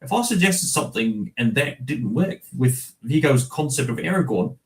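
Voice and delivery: imitated New Zealand accent, slightly Australian; Peter Jackson. Voicing a director's quote about his actor, New Zealand accent. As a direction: put on a Kiwi director's accent. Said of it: "I was imitating Peter, Peter Jackson".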